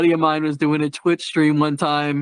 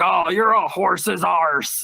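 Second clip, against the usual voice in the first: put-on British accent; much slower than usual. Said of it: "a lot of British people".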